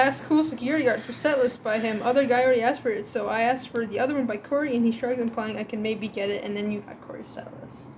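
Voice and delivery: flat robot reading voice; robotic reading voice. Acted. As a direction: read it like a robot. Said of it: "my robotic reading voice".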